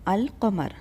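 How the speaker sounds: al qamar with the l of "al" clearly heard; lam sounded. Shown as a demonstration. Teacher models al qamar for learners, lam sounded. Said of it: "we can hear the lam in al qamar".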